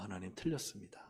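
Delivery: subdued concession; submissive admission. Retold or imitated. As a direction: own up quietly in a retold prayer. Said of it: "제가 말씀에 굴복했어요".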